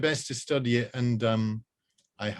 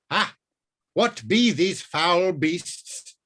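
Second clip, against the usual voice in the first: put-on high, slow, old-fashioned wail; wailing old wizard; 7 semitones higher, 5 dB louder, much slower than usual. Wizard frightened by passing cars, wailing high and slow. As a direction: cry it out like a startled ancient wizard. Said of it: "he wailed".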